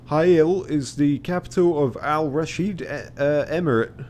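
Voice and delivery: high, projected character reply; Ottoman captain. Acted. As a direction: answer in a put-on captain's voice. Voicing captain's reply about Hail.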